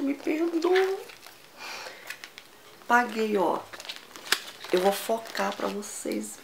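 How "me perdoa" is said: high, playful plea for forgiveness; apologising to viewers for the splurge; mock apology. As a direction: beg forgiveness half-jokingly. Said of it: "eu falei".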